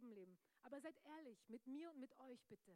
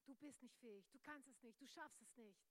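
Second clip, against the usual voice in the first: whispered lies; 6 dB quieter than usual. Retold or imitated. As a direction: murmur the doubts close to the ear. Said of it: "Diese ganzen Flüstern im Ohr". (leises, zweifelndes Murmeln am Ohr)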